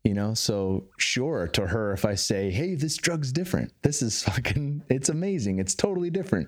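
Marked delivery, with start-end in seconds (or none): 2.5-6.5 higher-pitched, eager persuading; excited pitch. Retold or imitated. Brother telling his sister about the drug, eagerly persuading. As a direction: talk it up with raised pitch, mildly excited.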